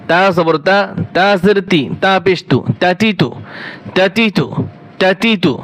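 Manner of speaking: বাবিবু said quick with every vowel kept short; short vowels, no drawl. Shown as a demonstration. Teacher leading the class: বাবিবু short, with no drawn vowels. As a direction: run বাবিবু together short, no stretching. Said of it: "একটুও টান দেওয়া যাবে না".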